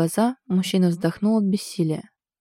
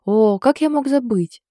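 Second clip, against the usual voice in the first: amused snort; 6 semitones higher, 4 dB louder, slower than usual. A narrator's reading. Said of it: "весело хмыкнул Стас".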